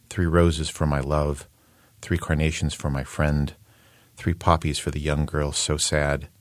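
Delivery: measured list-like verse reading; even, unhurried poetry reading; poem recitation. Shown as a demonstration. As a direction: recite line by line, pausing between phrases. Reads out poem translation.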